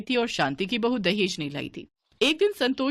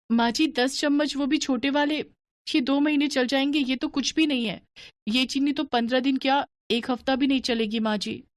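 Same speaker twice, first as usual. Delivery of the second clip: put-on raised-pitch young bahu pleading with her mother-in-law; daughter-in-law protesting; 6 semitones higher than usual. Bahu protesting to her stingy mother-in-law about the sugar, higher voice.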